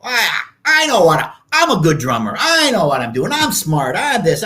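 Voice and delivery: mock cocky boasting; arrogant. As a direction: imitate your arrogant younger self bragging. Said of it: "I was so arrogant".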